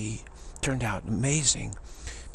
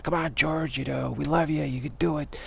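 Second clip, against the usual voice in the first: higher-pitched cheering without real shouting; mock screamed encouragement; 4 semitones higher than usual. Fans rooting for the struggling singer, mock screamed encouragement. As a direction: imitate fans urging their idol on. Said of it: "the others were screaming".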